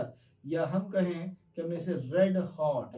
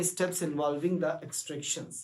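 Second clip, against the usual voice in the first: very slow, word by word; dictating slowly to the class; slow definition; much slower than usual. Shown as a demonstration. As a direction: spell out the definition. Teacher defines term slowly.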